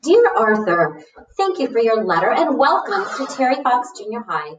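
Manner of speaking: lightly voiced, pleased teacher; welcoming teacher. Teacher replying to Arthur's letter, lightly voiced welcome. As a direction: read it as a teacher welcoming a new student.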